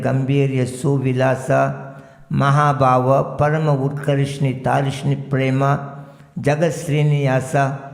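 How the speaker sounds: measured Sanskrit recitation; sacred list recitation. Acted. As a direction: intone each name in turn, lingering on some.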